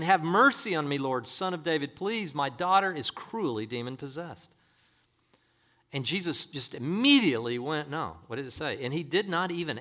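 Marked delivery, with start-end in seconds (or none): 0.0-4.5 raised, pleading scripture quote; declaimed plea for help; crying out for mercy. Acted. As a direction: call out a plea, moderately. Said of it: "began to cry out".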